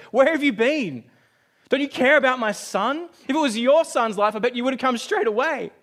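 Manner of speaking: angry father confronting the late surgeon, shouting; furious father. Retold or imitated. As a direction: let the father's rage spill out high and loud. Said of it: "The father is furious".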